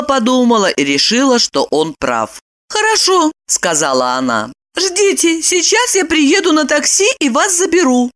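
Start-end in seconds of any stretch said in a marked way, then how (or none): 2.7-8.1 high decisive woman; high, brisk agreement; high-voiced woman deciding; Lipochka's voice. A narrator's reading.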